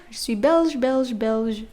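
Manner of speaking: teacher drill; repeated demo. Shown as a demonstration. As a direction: repeat Belge clearly. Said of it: "For Belge".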